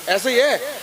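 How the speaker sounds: normal talking voice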